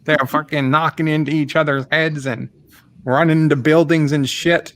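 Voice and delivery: a hammed-up Australian accent, lightly done; lightly voiced Australian caller ranting about dingoes; mock Aussie accent. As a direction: play a blustering Aussie neighbour on the phone, mock Aussie twang. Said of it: "I do it as Ozzy Opre".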